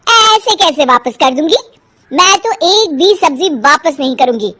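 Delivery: mild mock argument, arrogant; haggling housewife. Haggling quarrel with vendor.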